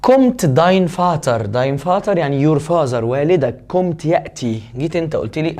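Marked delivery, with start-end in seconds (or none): 0.1-1.4 slow dictation. Shown as a demonstration. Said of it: "slow model of the question".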